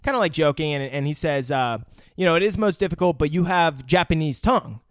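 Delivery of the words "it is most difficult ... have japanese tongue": lightly imitated Japanese accent; just a hint of Japanese accent; slight Japanese accent. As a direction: quote him with a faint Japanese accent. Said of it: "I gave it slight accent right there".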